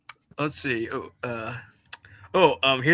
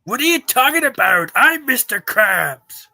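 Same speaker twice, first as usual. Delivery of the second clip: indignant; 7 dB louder than usual. Acted. Acted SpongeBob scene.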